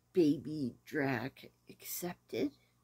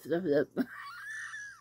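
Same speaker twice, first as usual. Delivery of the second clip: failed gurgle attempt. Shown as a demonstration. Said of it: "See, I can't do it".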